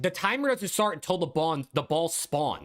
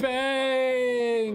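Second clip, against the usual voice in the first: excited shout; 9 semitones higher than usual. Real, not acted. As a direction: yell it out like a goal call. Streamer calls the winning score.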